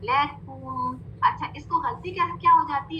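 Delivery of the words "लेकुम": लेकुम ending in a long "koo-m"; rounded "oo". Shown as a demonstration. Teacher modelling the right reading, long rounded "oo". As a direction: round the lips through लेकुम. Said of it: "और sound कैसी है".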